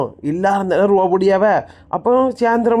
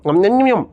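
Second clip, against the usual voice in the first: mock munching. Imitates eating after liking the food.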